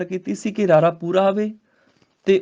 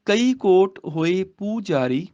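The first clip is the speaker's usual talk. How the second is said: slow, drawn-out verse reading; model recitation; much slower than usual. Shown as a demonstration. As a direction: recite slowly with a long first vowel in ਪੂਜਾਰੀ. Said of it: "ਪੂਜਾਰੀ ਬੋਲਣਾ ਹੈ".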